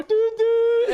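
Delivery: high, loud "dude, dude"; yelling after her. Retold or imitated. Husband calling after his wife's car, high yell. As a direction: shout to the car ahead. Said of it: "I, like, drive".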